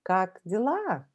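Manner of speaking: "как дела" slowly, stress on LA; slow model question. Shown as a demonstration. Teacher models how are you. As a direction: lay out "как дела" word by word. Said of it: "you can ask a question".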